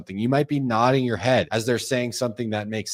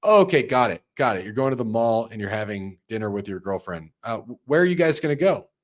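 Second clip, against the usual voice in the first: flat, dutiful recap with no interest; mock bad sales rep; mechanical rep; 2 semitones lower than usual. Shown as a demonstration. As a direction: tick the boxes like a robot. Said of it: "You don't say".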